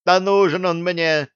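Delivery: high, shrill shriek of denial. Acted. Elf shrieks denying any interest in the captain, high-pitched. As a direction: squeal it out in protest. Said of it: "заверещала эльфа".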